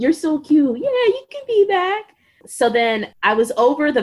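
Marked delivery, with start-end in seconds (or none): 0.0-2.2 high, sugary talking-down voice; mock patronizing. Mother mimicking doctors patronizing her about her birth plan, sugary and high. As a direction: pat the patient on the head with your tone.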